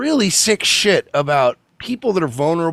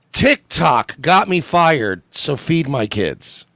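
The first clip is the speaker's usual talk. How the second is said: slow, mocking read of her plea; mocking the nurse; slower than usual. Host mocking the nurse's GoFundMe title, slow mock. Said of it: "summarized in one sentence".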